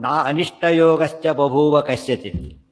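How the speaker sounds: slow, deliberate Sanskrit quotation; verse recitation. Real, not acted. Teacher cites the next verse, slow recitation. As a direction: stretch out the verse as scripture.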